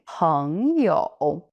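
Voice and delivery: Peng you, peng climbing up, you dipping and rising; peng you, rising then dipping. Shown as a demonstration. Teacher repeats friend for learners to copy. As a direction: peng rises, you dips then lifts. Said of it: "falling and rising".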